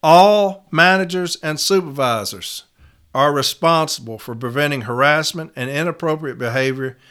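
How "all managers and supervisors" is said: "All" held long and punched; slow down and hit "All" hard; stress on All. Shown as a demonstration. Trainer showing reps which words to highlight, stressing "All" slowly. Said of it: "make sure that we emphasize".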